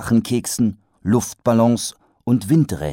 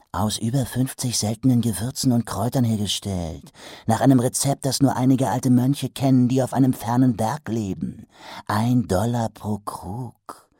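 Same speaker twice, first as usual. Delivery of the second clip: eager trader; 3 semitones higher than usual. Acted. Trader praises his salve.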